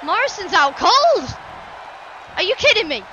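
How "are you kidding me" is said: contained, incredulous question; mild disbelief. Real, not acted. Commentator sees Morrison out cold, mild disbelief. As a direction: ask it stunned, short of a shout. First reaction to the knockout.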